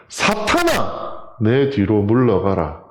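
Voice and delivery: very slow, weighty command; stern rebuke. Acted. Jesus rebuking Peter, slow and stern. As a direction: draw out 사탄아 as a solemn rebuke.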